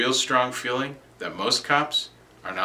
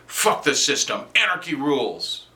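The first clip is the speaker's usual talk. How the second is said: rebel slogan; 3 semitones higher than usual. Acted. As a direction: proclaim it like a defiant slogan. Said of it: "We all still say".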